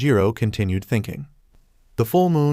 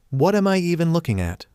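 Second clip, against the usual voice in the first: screamed loudly; 7 semitones higher than usual. A narrator's reading. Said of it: "Zenitsu screamed loudly".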